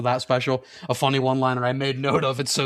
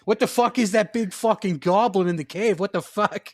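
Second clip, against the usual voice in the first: higher-pitched indignant Boston voice; mock Boston outrage, pitched up; Boston accent; 5 semitones higher than usual. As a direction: complain like a Boston cop in a fantasy. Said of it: "The Departed and Lord of the Rings".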